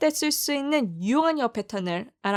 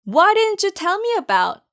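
slow demo; 7 semitones higher, much slower than usual. Shown as a demonstration. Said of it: "여기 발음 주의하세요".

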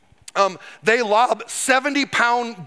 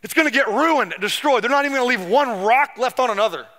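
prophetic warning; 4 semitones higher than usual. Retold or imitated. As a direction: proclaim doom over the temple. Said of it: "He walks into the temple and goes".

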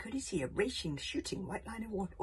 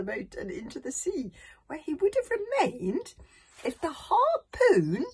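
building suspense; 4 semitones higher, 10 dB louder than usual. A narrator's reading.

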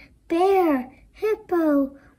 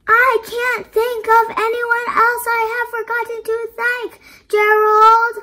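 excited protest; 8 semitones higher, 6 dB louder than usual. Acted. Piggy protesting to Gerald.

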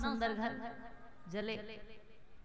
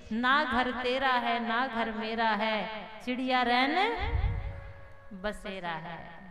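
slow recited proverb; slower than usual. Acted. Preacher reciting a proverb to the congregation, slow and measured. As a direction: intone the saying like a verse.

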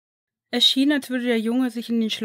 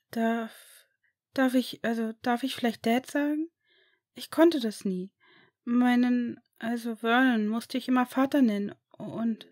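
put-on higher, hesitant child's voice, stammering in disbelief; disbelieving boy; 3 semitones higher than usual. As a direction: ask as if afraid to hope. Boy asks to say Dad. (höhere, zögernde Kinderstimme, ungläubig)

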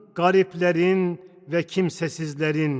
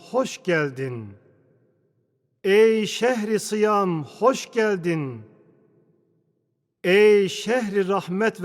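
solemn recitation. Acted. Poetic welcome to Ramadan.

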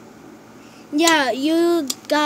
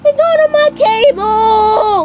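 gasping in dismay; 6 semitones higher, 5 dB louder than usual. Real, not acted. Slime spilled on the table.

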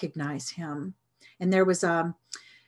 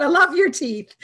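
high and loud, laughing through the words; 8 semitones higher, 7 dB louder than usual. Retold or imitated. Doctor answering the beaming patient, laughing warmly. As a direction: gush it out while laughing.

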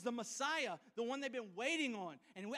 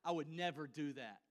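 mildly mock-smug I would never, a touch lower; smug self-assurance; 5 semitones lower than usual. Congregation members claim they would never deny Jesus, mildly smug. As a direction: lightly mimic our pride. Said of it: "All of us are like".

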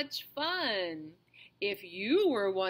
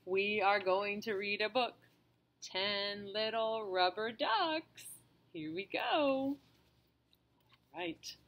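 gentle storybook reading voice; reading to children. Acted. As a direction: read aloud to a small child. Reads a picture book to a child.

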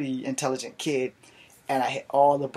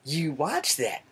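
flat, falling accusation; pointed repeat; much slower than usual. Retold or imitated. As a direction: repeat it flatly, dawning annoyance. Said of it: "And I go again".

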